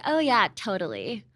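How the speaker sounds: put-on airy valley-girl "Oh yeah, totally"; lightly mock a Los Angeles surfer kid. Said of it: "They'd be like".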